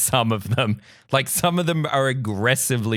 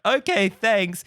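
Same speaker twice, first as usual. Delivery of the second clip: higher, polite brush-off; mock-courteous thanks; feigned politeness; 5 semitones higher, slower than usual. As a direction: imitate a guest nodding along. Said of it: "they were being polite".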